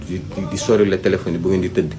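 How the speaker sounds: usual speaking voice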